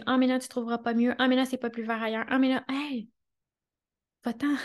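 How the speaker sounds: lightly voiced whiny little inner voice; a hint of a childish doubting voice; petite voix immature. Little voice talking her out of her desire, petite voix immature. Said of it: "la petite voix qui me dit".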